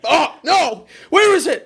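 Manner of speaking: high, laughing mock panic. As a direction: ham up the panic of a lost video while laughing. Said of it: "You're like".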